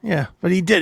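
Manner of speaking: normal talking voice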